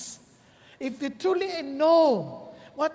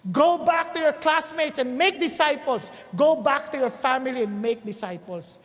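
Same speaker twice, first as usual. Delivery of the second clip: rising exhortation; 3 dB louder than usual. Real, not acted. Preacher urging the congregation to make disciples, building louder. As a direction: repeat the call, louder each time.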